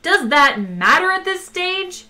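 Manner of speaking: high, loud, drawn-out question; shouting. A narrator's reading. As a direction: shout it in exasperated protest. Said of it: "shouted Arthur".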